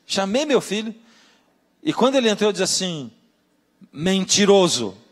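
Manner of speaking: mother recounting how she confronted her son; indignant old mother. Retold or imitated. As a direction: lean on it like an offended mother. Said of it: "Ela diz assim".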